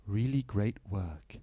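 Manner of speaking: a hint of a solemn great actor; lightly voiced grave actor.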